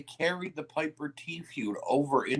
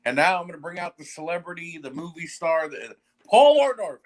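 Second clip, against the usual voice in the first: mock ring announcement; 3 semitones higher, 6 dB louder than usual. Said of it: "he's like".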